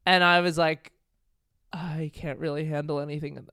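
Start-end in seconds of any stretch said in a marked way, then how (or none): 1.7-3.4 whispered inner thought; retold overwhelmed whisper. Diner at breaking point thinks to herself, overwhelmed whisper. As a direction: whisper it softly, as if to yourself.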